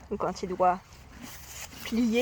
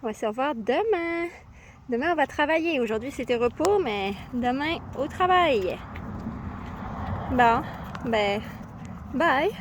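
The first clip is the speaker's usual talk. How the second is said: cheerful goodbye; 4 semitones higher, 4 dB louder than usual. Real, not acted.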